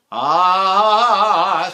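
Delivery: throaty vowel. Shown as a demonstration. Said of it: "stuff's coming up on my throat".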